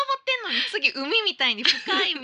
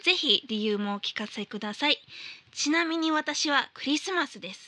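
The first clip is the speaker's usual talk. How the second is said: letter reading; 4 semitones lower than usual. Acted. Host reading listener's New Year mail on air, formal read.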